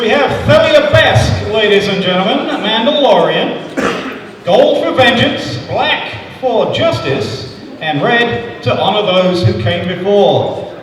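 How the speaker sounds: announcer voice. Acted. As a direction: build up the hero's entrance. Announcing a Mandalorian contestant.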